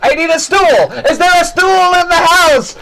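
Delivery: urgent, high-pitched goblin shout. Acted. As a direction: holler for help as a goblin. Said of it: "a goblin runs up and goes".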